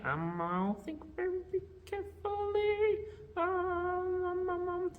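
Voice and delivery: very high sing-song puppet voice; Grover. Pretend. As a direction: make a show of thinking, puppet-style. Puppet makes show of thinking.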